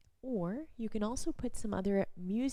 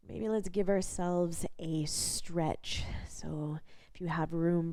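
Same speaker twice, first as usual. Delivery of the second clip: guided body scan. Real, not acted. Instructor leading a lying-down body scan, calm guided practice voice. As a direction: guide gently with long pauses between instructions.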